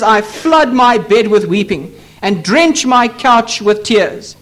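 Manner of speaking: slow, measured quoting of grief; sorrowful lament. Retold or imitated. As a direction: draw out each word of the psalmist's sorrow. Psalmist's tearful lament read out.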